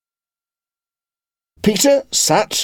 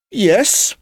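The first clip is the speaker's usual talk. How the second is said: anxiously; 12 semitones higher, 3 dB louder than usual. Acted. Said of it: "he said rather anxiously".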